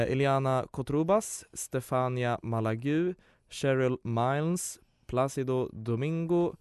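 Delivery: reading names with an Italian lilt; light Italian accent on a cast list; put-on Italian accent. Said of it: "Jag får slänga på en italiensk dialekt".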